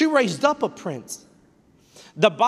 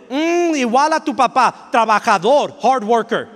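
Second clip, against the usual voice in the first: proud, loving praise of dad; warmly praising the father to the child; sincere praise; 2 semitones higher, 3 dB louder than usual. Shown as a demonstration. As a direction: build the child up with pride. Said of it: "you better follow up with".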